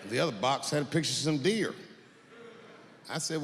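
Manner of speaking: ordinary delivery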